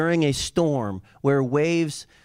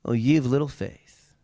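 calm Jesus. Retold or imitated. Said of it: "And he says to him".

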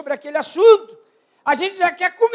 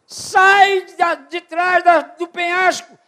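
preached shout; 3 semitones higher, 4 dB louder, much slower than usual. Acted. Preacher shouting God's call.

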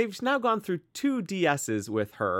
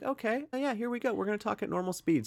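mock slowed-down reset; 6 semitones higher, 4 dB quieter than usual. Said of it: "and just be like".

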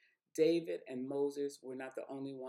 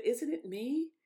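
God's rebuke; 11 semitones higher, 7 dB louder, slower than usual. Retold or imitated.

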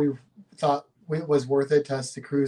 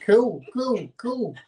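cooing pigeon voice; 7 semitones higher, much slower than usual. Retold or imitated. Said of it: "that's the Australian accent pigeon".

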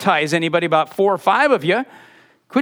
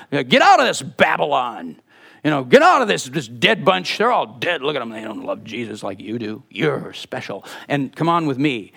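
coaxing false prophet; 5 semitones lower than usual. Retold or imitated. False prophet sweet-talking a churchgoer into leaving, hushed and coaxing. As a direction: coax them out like a smooth recruiter.

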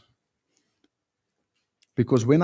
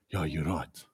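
meek agreement; 11 semitones lower, 10 dB quieter than usual. Retold or imitated. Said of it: "And they're like".

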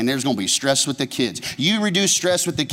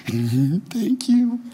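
gracious thanks; 6 semitones higher, much slower than usual. Pretend. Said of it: "you're gonna say".

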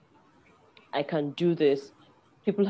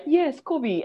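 hype man cheer; 9 semitones higher than usual. Retold or imitated. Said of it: "as if I'm talking to".

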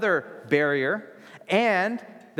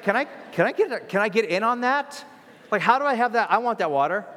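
eager plea; 6 semitones higher, 3 dB louder, faster than usual. Retold or imitated. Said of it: "She's like".

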